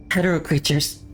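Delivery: terse report. Acted. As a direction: report the threat as a statement. Commandant's reply over the call.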